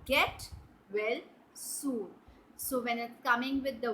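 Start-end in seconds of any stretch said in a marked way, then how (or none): 0.0-2.1 "Get well soon." with well landing as the right word; correct version. Shown as a demonstration. Teacher to children, correcting the phrase, plain model line. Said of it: "No, you say".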